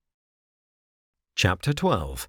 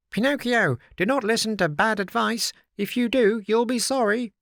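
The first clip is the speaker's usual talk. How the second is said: high, louder little blackbird warning; sharp clear bird call; 13 semitones higher, 4 dB louder than usual. Acted. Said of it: "called out sharp and clear".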